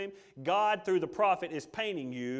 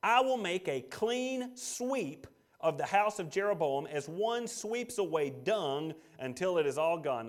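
slow solemn reading; slower than usual. Shown as a demonstration. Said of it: "This is where the imagery comes".

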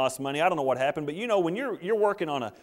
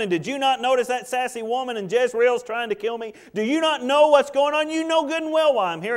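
indignant Elijah; 7 semitones higher, 4 dB louder than usual. Acted. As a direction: build from a hurt mutter to an outraged whine. Elijah's indignant reply, acted.

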